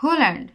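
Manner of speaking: হোল্যান্ড with a sounded h; the English way, হোল্যান্ড with the h voiced; English pronunciation. Shown as a demonstration. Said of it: "তাহলে কি বলতাম?". (ইংরেজি উচ্চারণে হোল্যান্ড)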